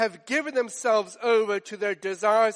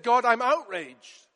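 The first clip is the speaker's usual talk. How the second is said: louder and higher, building fury; angry outburst; 4 semitones higher, 5 dB louder than usual. Acted. Preacher voicing Jonah shouting at God, angry outburst. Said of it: "He said".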